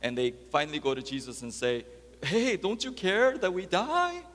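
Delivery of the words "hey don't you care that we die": mildly frantic, high-pitched plea; frantic disciples. Retold or imitated. Disciples waking Jesus in the storm, imitated frantic plea. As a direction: imitate an alarmed appeal, pitched up. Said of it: "disciples are in a frantic mode".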